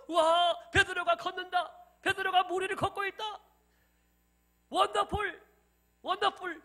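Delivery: high, loud cries of amazement. Acted. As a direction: exclaim like astonished onlookers cheering. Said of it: "깜짝 놀라며". (깜짝 놀라 높고 크게 환호)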